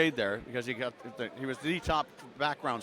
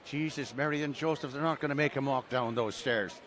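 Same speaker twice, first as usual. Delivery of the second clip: put-on light Irish accent for mom; a mild Irish lilt, imitating mother. Son imitates his Irish mom watching the Grammys, mild Irish accent. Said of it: "in her Irish accent".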